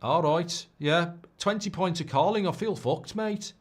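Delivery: mock Scouse accent; Scouse impression. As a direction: moan about last night in Scouse. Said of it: "That's Scouse again".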